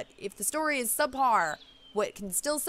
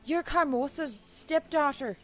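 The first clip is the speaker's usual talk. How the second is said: put-on Jamaican accent sliding into Scottish, slow and higher; slipping Jamaican accent; 5 semitones higher, slower than usual. Witch doctor names the stepdaughter, Jamaican accent turning Scottish. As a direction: attempt Jamaican, land on Scottish. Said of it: "Now she's Scottish".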